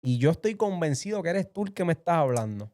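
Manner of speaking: reenacted fervent plea aloud; retold prayer aloud. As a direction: call up to God as if testing Him. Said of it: "hablé en voz alta y dije".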